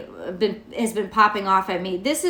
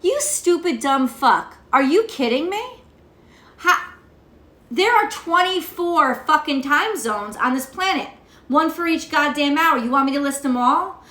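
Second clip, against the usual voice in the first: angry retort; 4 semitones higher than usual. Retold or imitated. Answering the time-zone commenter, irritated and heated. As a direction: fire back at the commenter, exasperated. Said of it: "that's my little rant".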